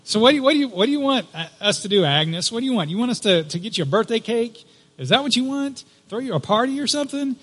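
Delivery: sarcastic. Retold or imitated. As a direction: needle her with scorn. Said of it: "one of her friends says sarcastically".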